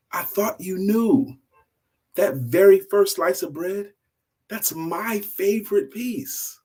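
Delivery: high, pleading, wounded apology; apologetic husband. Acted. Husband apologizing to his wife for the misunderstanding, hurt and sincere.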